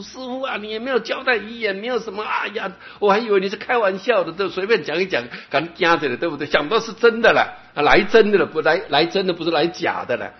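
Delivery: high, wailing lament for the dead master; disciple's wailing. Acted. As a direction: cry out to the master like a grieving disciple. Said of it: "他那徒弟在幡然大哭". (徒弟哭喊着师父，高声哀号)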